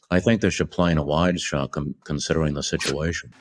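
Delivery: put-on low, offhand Bronx-accented murmur, quick at the end; Kubrick's Bronx voice. Kubrick suggesting a wide shot, casual Bronx mumble. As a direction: toss it off like a guy from the Bronx. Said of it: "there's one point where he's like".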